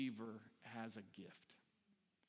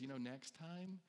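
soft, gentle teacher's correction; 5 dB quieter than usual. Acted. Teaching-gifted person advises after the dropped tray, very gently. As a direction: coach them kindly and softly. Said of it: "very gently says".

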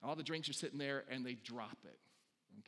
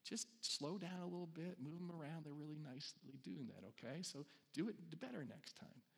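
soft, gentle teacher's correction; 5 dB quieter than usual. Acted. Teaching-gifted person advises after the dropped tray, very gently. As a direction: coach them kindly and softly. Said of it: "very gently says".

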